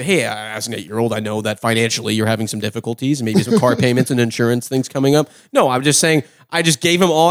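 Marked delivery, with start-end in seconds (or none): 0.0-5.3 mock formal. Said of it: "I didn't need to say".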